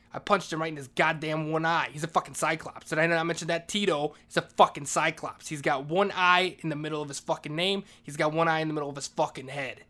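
loud, indignant outburst; worked-up rant. Real, not acted. Janitor telling listeners about punching Tito, loud indignant rant. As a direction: hammer out each outrageous detail, loudly.

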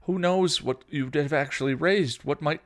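loud, high, emphatic reprimand; heated telling-off; scolding. A narrator's reading. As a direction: scold a reckless younger sister. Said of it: "Buffy scolded".

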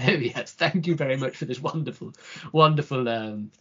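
put-on posh English accent, overly polite. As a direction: thank them in a lightly posh accent. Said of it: "you have to put the accent on".

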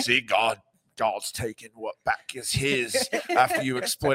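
light, slightly slowed mock Cockney; a hint of a preachy Cockney clergyman; Cockney accent. Podcaster voicing a British clergyman scolding pirates, light Cockney. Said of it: "I don't know why he has a Cockney accent".

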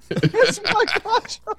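slow, high, relishing each word of "Mike Honcho"; gleeful, drawn-out name drop; savoring the name. Shown as a demonstration. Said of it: "make you say more last names".

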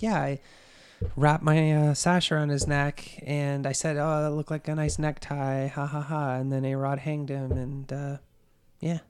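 casual, emotionless confession with dry recited laugh; dispassionate retelling. Retold or imitated. Suspect under interrogation repeating her story, dispassionately. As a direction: tell it as routine, unmoved. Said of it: "she's telling the story dispassionately".

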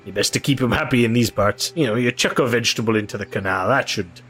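lightly voiced river boatman; earnest, lively protest from a simple bargeman; superstitious boatman. Boatman explains river god.

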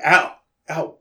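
a loud hammed-up ow; mock ow. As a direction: fake a pained yelp. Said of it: "And then she's like".

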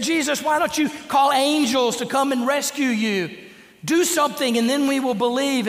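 mocking taunt. Preacher voicing the crowd mocking Jesus, high jeering taunt.

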